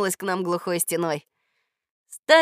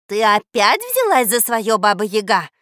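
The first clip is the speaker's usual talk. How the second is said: menacing; 7 dB louder than usual. Acted. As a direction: scold her like a threat. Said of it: "грозно зашипела она".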